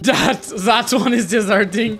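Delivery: slow echo through laughter; amused mimicry. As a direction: mimic the line while cracking up. Laughing echo of friend's line.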